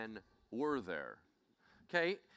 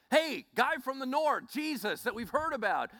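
high, loud, urgent appeal; crying out; 9 semitones higher, 5 dB louder than usual. Acted. Blind men calling to Jesus for help, crying out. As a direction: shout for his attention over a crowd. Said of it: "They cried that out to get his attention".

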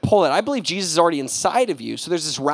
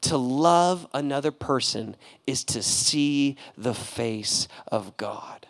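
slow, fading, softer reading; quoting the musical line, slow and softer; reverent quote; 3 semitones lower, 4 dB quieter, slower than usual. Retold or imitated. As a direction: let the words sink in. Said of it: "And he says".

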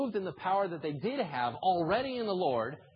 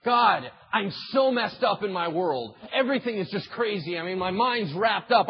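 panicked plea; 4 semitones higher, 5 dB louder than usual. Acted. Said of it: "See, here's what we do".

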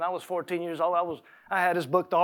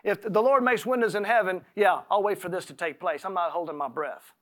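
mocking; 2 semitones lower than usual. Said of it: "he's kinda mocking him".

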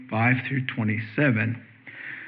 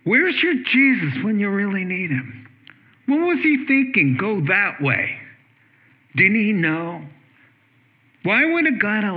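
devil's taunt; 5 semitones higher than usual. Retold or imitated. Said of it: "the devil has whispered in their ears".

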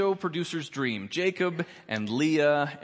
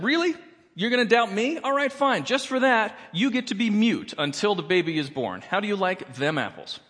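sassy angel; 5 semitones higher than usual. Acted. Angel of the Lord quoted.

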